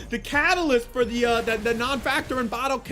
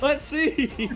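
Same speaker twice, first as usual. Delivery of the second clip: John Sterling impression; 5 semitones higher, slower than usual. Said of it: "I would start going John Sterling mode".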